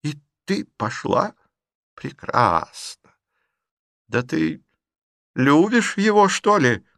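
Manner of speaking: put-on old aunt confronting her niece; agitated old aunt. A narrator's reading. Aunt incredulous.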